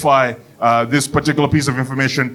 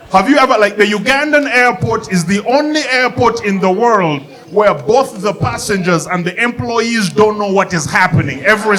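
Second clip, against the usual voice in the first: higher, excited rant; higher pitched comic rant; rising rant; 6 semitones higher than usual. Real, not acted. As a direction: build the rant up high. Ranting about Ugandan airport.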